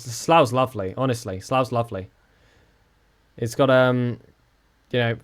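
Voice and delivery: dry, fake-sincere praise of a dull town; tongue-in-cheek tourist pitch; deadpan sarcasm. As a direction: sell a bad place with a straight face. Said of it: "do not go to Scunthorpe or Slough".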